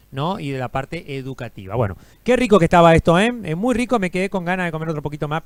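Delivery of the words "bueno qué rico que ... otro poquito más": talking while chewing; words round a bite of food; mouth full. Real, not acted. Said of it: "no se come con la boca llena, pero yo lo estoy haciendo". (hablando con la boca llena)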